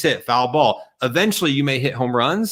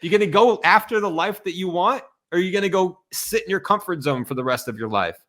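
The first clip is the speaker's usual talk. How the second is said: high, fast challenge; fired up; 5 semitones higher than usual. Real, not acted. Host challenging guest to face fear, fired up. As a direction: fire the question at him. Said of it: "I'm getting fired up here".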